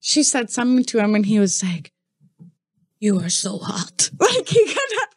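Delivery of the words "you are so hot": slow, stiff "You are so hot"; a lightly voiced stiff white guy, slow; awkward white man. Quoting a guy flirting, slow and stiff. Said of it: "the way he said it".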